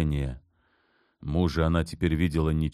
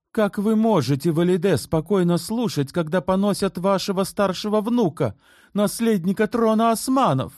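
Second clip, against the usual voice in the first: higher, wounded plea; hurt reproach; 4 dB louder than usual. A narrator's reading. Turhan reproaching Valide, higher and hurt. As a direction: reproach her mother-in-law. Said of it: "с обидой сказала Турхан".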